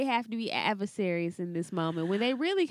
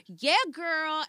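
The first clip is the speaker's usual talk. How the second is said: put-on sister girl voice; 5 semitones higher than usual. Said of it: "was like".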